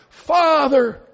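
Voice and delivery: high, loud yell of Father. Retold or imitated. Imitating David Weatherly yelling Father from the pulpit. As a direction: cry out Father at full force. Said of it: "He would yell".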